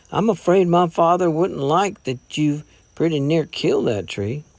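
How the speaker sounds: lightly voiced smiling reproach; a gentle, friendly correction. A narrator's reading. Gray teases Jason about the tree, mildly smiling. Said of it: "Gray smiled".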